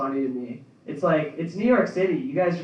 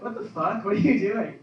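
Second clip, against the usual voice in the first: shocked parents; 6 semitones higher than usual. Retold or imitated. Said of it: "They'll be like".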